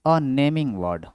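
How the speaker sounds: very slow, each word spaced; slow dictation. Shown as a demonstration. Teacher dictates a definition. (परिभाषा धीरे-धीरे लिखवाना)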